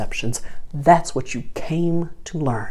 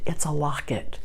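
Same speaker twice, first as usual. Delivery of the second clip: hushed, softer voice; whispered reveal; 7 dB quieter than usual. Retold or imitated. Shop clerk showing the locket, softly whispered. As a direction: whisper it like a secret.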